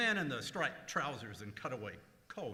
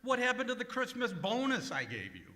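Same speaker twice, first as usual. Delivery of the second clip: loud, higher, indignant; indignant outburst; 6 semitones higher, 6 dB louder than usual. Acted. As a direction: balk loudly at the cost. Boss objects to charged purchases.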